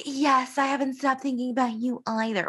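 high, rushed mock confession; mock love confession. Retelling Kathy giving in to Don, high-pitched mock confession. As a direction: quote her admission high and fast.

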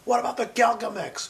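mock alien bishop. Friend voicing an alien bishop in a joke, high mock voice. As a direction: squeak it out like a made-up alien priest.

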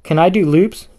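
bubbling with eagerness; excited question. A narrator's reading. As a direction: ask like a thrilled little daredevil. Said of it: "Benny cried".

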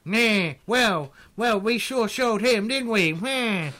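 loud Southern drawl of a gang heavy, smug; a smug Southern goon boasting to his boss; southern thug voice. Acted. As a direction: gloat in a Southern accent. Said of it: "suddenly went southern".

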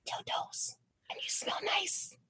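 hushed, intimate stage whisper. Retold or imitated. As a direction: whisper it into someone's ear. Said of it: "she whispers in my ear".

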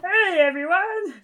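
high, loud hyped host greeting; Triple H. Retold or imitated. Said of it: "Sounds just like him".

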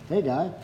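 "Hey, guy" as a name's pronunciation; variant pronunciation. Shown as a demonstration. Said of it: "Some people pronounce it".

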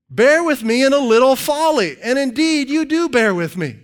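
hammed-up scripture reading; facetious. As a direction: play up the tongue-in-cheek appeal. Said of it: "Paul's even facetious sometimes".

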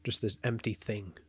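rushed, breathless rant; racing on the last of your air; out of breath. Real, not acted. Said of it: "I'm out of breath on that rant".

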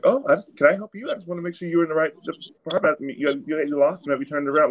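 mock her with a high, falsely helpful tone; imitating the saleswoman. Mocking the saleswoman who followed him, high fake-helpful. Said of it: "And she was like".

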